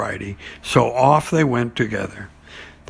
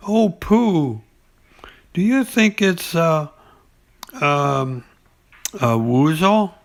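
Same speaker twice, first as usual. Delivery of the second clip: high, whispered excited piglet; breathless little squeak of excitement; 4 semitones higher, slower than usual. Acted. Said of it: "squeak of excitement".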